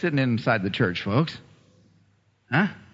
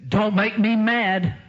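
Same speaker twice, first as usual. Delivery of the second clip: raised, drawn-out protest; acted indignant retort; 6 semitones higher, much slower than usual. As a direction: stretch it out as a mock warning. Acts out husband's indignant reply.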